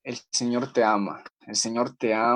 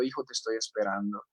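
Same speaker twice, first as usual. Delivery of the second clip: tender voice of Jesus; 3 semitones lower than usual. Pretend. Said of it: "es Jesús quien te está hablando y te está diciendo".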